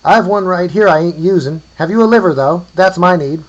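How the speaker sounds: put-on high, loud old croaker; ancient croaking call. A narrator's reading. Offering a femur for a liver, croaking call. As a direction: croak it out loudly to someone down the hill. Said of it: "came an ancient croaking voice from nearby".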